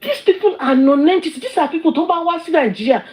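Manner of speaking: real indignation, pitched high; indignant rant. Real, not acted. Streamer dismissing critics as non-entities, indignant.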